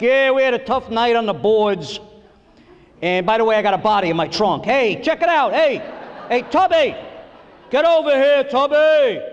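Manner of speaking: put-on Italian-American mobster accent, hollering at his assistants; Scorsese gangster accent. Comic imitating the coach in a mob accent, yelling for Tubby. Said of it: "He's got the hair and the suit and the shoes and the accent".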